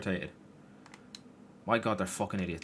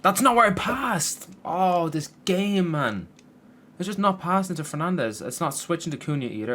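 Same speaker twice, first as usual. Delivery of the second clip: furious shout; 8 semitones higher, 7 dB louder than usual. Real, not acted. Gamer shouting at the game for the misplaced pass. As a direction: bellow in disbelief at the pass. Pass goes wrong again.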